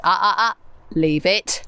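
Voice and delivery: firm mum telling off the dog; mummy voice. Shown as a demonstration. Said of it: "it's like the mummy voice".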